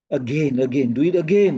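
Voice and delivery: AGAIN repeated firmly with a falling close; emphasizing by repetition. Shown as a demonstration. Teacher showing how to emphasize, deliberate repeats of AGAIN. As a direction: press AGAIN home each time. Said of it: "You see, I'm emphasizing".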